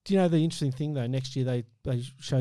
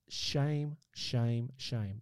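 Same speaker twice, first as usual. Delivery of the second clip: mock tut-tut; 7 dB quieter, much slower than usual. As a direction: sink the voice word by word. Repeated, fading lower and softer.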